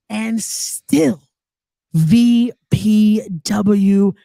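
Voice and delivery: slow, drawn-out champions announcement; ring announcer call. Shown as a demonstration. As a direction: stretch every name like a ring announcer closing the show. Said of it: "remember to be able to say at the end of the match".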